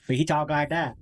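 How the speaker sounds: lightly imitated Florida Southern accent; Rodney Mason. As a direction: slip into a Panhandle way of talking. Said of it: "I love talking like him".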